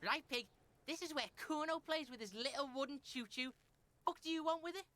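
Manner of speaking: a lightly voiced rude street kid; brash kid Kuno. Rude kid sneering at the detective, lightly voiced. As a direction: play the foul-mouthed kid, sneering.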